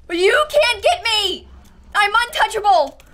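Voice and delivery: high, crowing boast; gleeful taunt. Real, not acted. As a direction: gloat loudly at your attackers. Taunting mobs after surviving.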